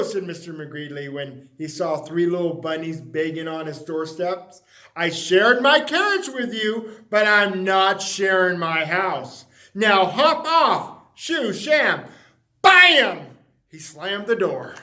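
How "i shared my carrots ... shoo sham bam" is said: cross shoo. Acted. Shooing bunnies, slamming door.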